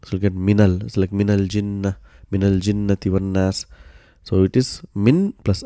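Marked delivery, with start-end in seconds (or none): 0.3-3.7 minal with a short a linking n to l; fatha linking. Shown as a demonstration. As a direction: say minal jinnati with n opened into -nal. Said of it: "it will get a fatha".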